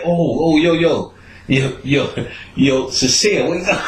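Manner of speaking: high urgent wake-up call; calling to wake him. Retold or imitated. Waking his passed-out friend, high calling voice. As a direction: shake him awake with your voice.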